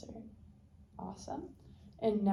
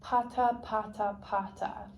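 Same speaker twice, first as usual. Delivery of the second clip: pata demo. Shown as a demonstration. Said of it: "I'll have you say".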